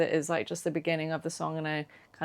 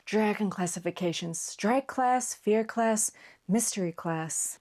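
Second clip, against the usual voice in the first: Jennifer Coolidge; slower than usual. Shown as a demonstration. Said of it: "I was giving more Jennifer Coolidge".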